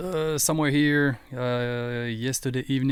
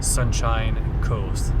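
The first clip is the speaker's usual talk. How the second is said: slowed down by a brain freeze; 3 dB louder, much slower than usual. Real, not acted. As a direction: drag the words out through a brain freeze. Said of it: "I got a brain freeze here".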